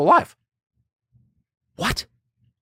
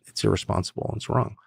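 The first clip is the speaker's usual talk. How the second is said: ordinary delivery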